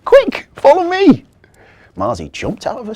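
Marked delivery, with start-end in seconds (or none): 0.0-1.2 urgent elf. Acted. Marzi urges the children to follow, loud high call. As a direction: call them on eagerly.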